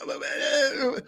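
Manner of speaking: high, halting imitation of a cornered witness; hammed-up reluctant okay; mock hesitant okay. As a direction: stall like someone caught out. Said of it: "he's like".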